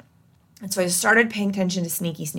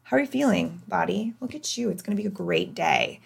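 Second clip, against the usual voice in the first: tender self-talk; 4 semitones higher than usual. Retold or imitated. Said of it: "I'd go".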